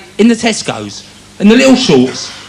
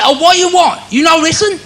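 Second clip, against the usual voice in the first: higher pitched mock shopkeeper; imitating takeaway man; 7 semitones higher than usual. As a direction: play the impatient man behind the counter. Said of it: "He said".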